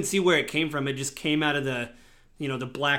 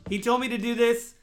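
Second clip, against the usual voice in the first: goblin; 6 semitones higher than usual. Acted. Goblin voiced.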